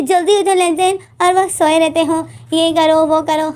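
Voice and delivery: mildly acted yelling, not full volume; mock scolding yell. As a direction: rattle off orders like a scolding mother. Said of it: "मामा चीखती थी, चिल्लाती थी".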